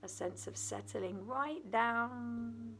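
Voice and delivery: unhurried meditation guidance with long pauses between phrases; guided meditation. Acted. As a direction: settle the listener gently into rest, leaving space after each phrase.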